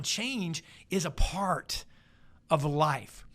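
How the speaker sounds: change said slowly and stretched; slow emphatic statement. Shown as a demonstration. Preacher stressing change is a part of life to the congregation. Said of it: "I wanna say that again".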